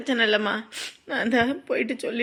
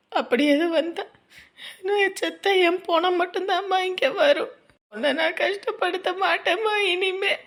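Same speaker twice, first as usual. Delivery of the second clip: higher-pitched, wounded crying protest; tearful vow; 3 semitones higher than usual. Acted. Daughter swearing never to trouble her mother, tearful and hurt. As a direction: vow it through tears, voice rising.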